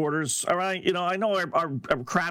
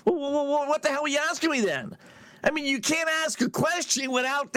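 high, rushed, stammering comeback; mock indignation as Draymond Green; 8 semitones higher, faster than usual. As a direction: throw the challenge back, fast and high-pitched. Acts Draymond challenging a reporter.

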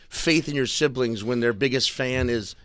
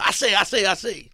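higher Southern pitchman "I say, I say"; commercial pitchman; 8 semitones higher than usual. Retold or imitated. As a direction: imitate the New Orleans ad man. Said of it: "there's a black dude who does it".

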